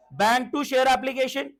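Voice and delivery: very slow, every word spaced; slow dictation. Shown as a demonstration. Teacher leading the class through the entry, very slow. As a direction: pace it out so everyone can shout it along. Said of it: "guys, again फटाफट बोलेंगे".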